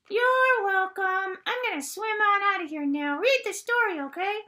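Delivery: high, sing-song little fish voice; a bubbly puppet fish saying goodbye; cheery fish puppet. Acted. Mrs. Fish thanking the kids and swimming off, high and sing-song.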